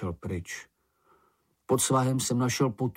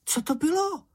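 much higher, eager little creature voice; Sniff's excited cry. A narrator's reading. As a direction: burst out wanting to know. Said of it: "vykřikl Čenich".

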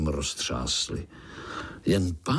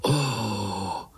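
breathy chorus of wonder; awed sigh; 2 semitones higher than usual. Acted. Spiderlings marvel at uncle's escape, awed sighing oh. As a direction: breathe out in amazement. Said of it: "vydechli pavoučci sborem".

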